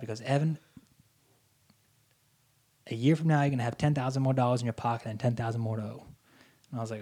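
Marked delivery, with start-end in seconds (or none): 0.2-6.0 bad Louisiana accent. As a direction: advise in a mock Southern accent. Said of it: "I'm gonna do a horrible accent".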